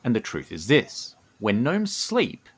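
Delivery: measured storyteller's read with deliberate pauses; lore narration. A narrator's reading. Co-host presenting the gnomes' Dreaming Society, measured lore narration. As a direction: unveil the secret phrase by phrase.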